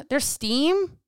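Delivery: a hint of her son in a fluster; teen son blurting about the microwave, mild mock panic; voicing her son. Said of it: "came into my office like".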